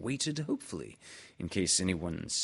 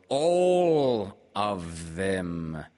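drawn-out, sulky repeat; slow, sulky insistence; 7 dB louder, much slower than usual. A narrator's reading. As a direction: drag it out like a sulking owl. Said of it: "said Owl sulkily".

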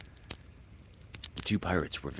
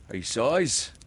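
high pirate remark; noting the captain's gloom; Smee; 6 semitones higher than usual. Acted.

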